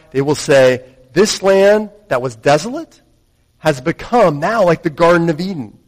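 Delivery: measured scripture reading, building in force; solemn public Bible reading that swells. Acted. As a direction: read it out as proclamation, rising to emphasis. Reads scripture aloud.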